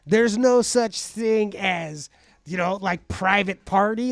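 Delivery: drawn-out, weighing each word; slow emphasis. Real, not acted. Friend laying down his rule on getting in, slow and deliberate. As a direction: spell it out slowly to drive it home. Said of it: "slow emphatic point".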